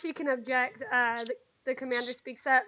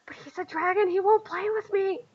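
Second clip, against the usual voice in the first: put-on high-pitched child character; little girl protesting; 6 semitones higher than usual. Little girl worried the dragon won't play, high voice. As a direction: object like a small child left out of play.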